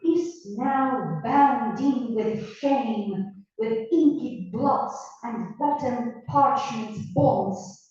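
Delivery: slow, measured verse recitation; Shakespeare recital. Acted. Teacher reading the Shakespeare passage aloud to students, slow verse recital. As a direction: declaim the verse slowly, line by line.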